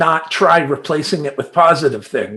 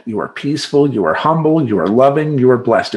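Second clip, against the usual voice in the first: calm mantra. Shown as a demonstration. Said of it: "that's my little mantra".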